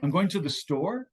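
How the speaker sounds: "I'm going to the store" with a slight questioning lift; a mild rising tune on "I'm going to the store," said like asking permission; hedged statement with a questioning end. Shown as a demonstration. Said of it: "has a question mark".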